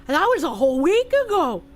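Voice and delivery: lightly voiced dim-witted boy, worried and lost; dumb voice. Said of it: "I gave him a dumb voice".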